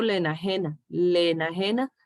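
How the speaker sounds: "le enajena" with both e's run together as one long vowel; vowels merged. Shown as a demonstration. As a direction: link "le" into "enajena" without a break. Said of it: "Alargo la".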